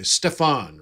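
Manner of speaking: "Stefan" in German as SHTEF-ahn; German pronunciation. Shown as a demonstration. Streamer says a chatter's name the German way, "Stefan". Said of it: "Pronounce it the German way".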